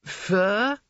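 high, hasty frightened squeak; frightened gargoyle. A narrator's reading. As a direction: quickly backpedal in fear. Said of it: "The door knocker thought quickly".

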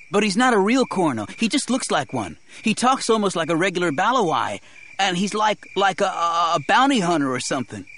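put-on high, hurried boy's voice trailing off; hasty boy. A narrator's reading. Boy hastily explains his rescuer, high and faltering. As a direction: call out hastily, high, stumbling for the word. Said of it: "Terrell called hastily".

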